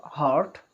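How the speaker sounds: "heart" with a clear R, harrt; American heart. Shown as a demonstration. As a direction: let the R ring in "heart". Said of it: "They say heart".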